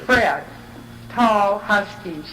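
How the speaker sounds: measured, evenly paced reading aloud; literary reading. Real, not acted. Writer reading their descriptive portrait to an audience, measured literary reading. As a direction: read it in deliberate phrases, pausing between images. Reads her written piece aloud.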